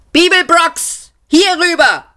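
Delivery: high-pitched urgent yell; shout. A narrator's reading. Man yelling to Seyfort down the corridor, shouting. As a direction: call across a corridor, stretching the words. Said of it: "schrie er".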